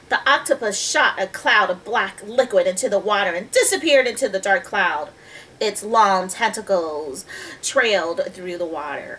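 put-on measured storybook reading to children; story narration. A narrator's reading. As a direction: read the tale clearly, stretching key words. Reads the story aloud.

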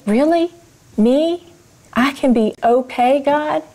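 can this really be for me?; amazed disbelief. Retold or imitated. Disbelieving hope.

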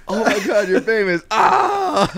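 high, excited mock awe ending in a yelp; hammed-up starstruck teen; quoting the kid. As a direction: replay the kid's line to laugh at it.

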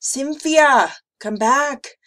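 put-on high, loud little-girl order; demanding child. A narrator's reading. Emma ordering the vanished monster back, demanding. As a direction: call out insistently like a bossy small child. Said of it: "Emma demanded".

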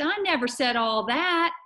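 high-pitched, mild screech of protest. Acted. Amanda denies her mother's version, mildly screeched. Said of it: "Amanda screeched".

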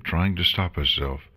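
plain reading voice

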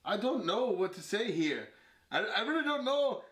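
badly faked British accent with swooping pitch; attempted British accent. Player bluffing through the accent challenge, attempted British accent. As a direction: put on an exaggerated, unconvincing British accent. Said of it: "It's British".

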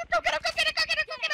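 excited cheering. Real, not acted. Cheering teammate on.

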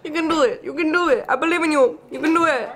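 loud, high encouraging cheer. Real, not acted. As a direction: cheer her on like a coach. Cheering friend to bite.

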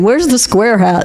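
slow, giggling mock of the husband; laughing quote. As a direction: laugh through his complaint.

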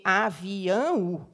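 "avião" slowly broken into four beats, a-vi-ão-o; syllable by syllable. Shown as a demonstration. Teacher counting as children do, "avião" split into syllables. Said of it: "fazer a contagem lá do jeito deles".

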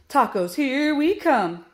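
high, loud happy cheer. A narrator's reading. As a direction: cheer for the coming treat. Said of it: "Flip and Flap cheered together".

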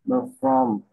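high pitched guessing "bơ from"; mock bluffing read. Shown as a demonstration. Tutor demonstrating bluffing unknown word, high and playful. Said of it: "cứ đọc kiểu".

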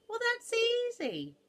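high, loud, slow crowing; cocky boast. Acted. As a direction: draw it out with great confidence. Rhinoceros brags loudly.

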